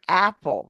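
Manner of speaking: "apple" with a wide-open first vowel. Shown as a demonstration. Teacher showing active American mouths, "apple" said wide open. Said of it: "far I'm opening my mouth".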